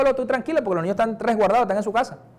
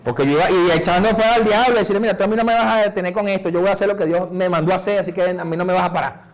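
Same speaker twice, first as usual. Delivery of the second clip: firm rebuke; 2 semitones lower than usual. Retold or imitated. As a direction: command the devil to back off. Rebuking the devil on the street.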